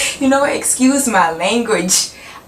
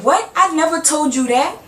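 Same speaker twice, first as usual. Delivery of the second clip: higher, sing-song feigned innocence; mock innocent denial; 7 semitones higher than usual. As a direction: play the two-faced girl acting clueless. Girl denies what she said.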